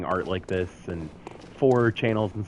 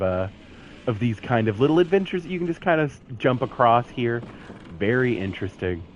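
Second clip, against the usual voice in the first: upbeat real estate agent pitch; realtor voice. Acted. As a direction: sell the neighborhood like a realtor. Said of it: "the realtor voice".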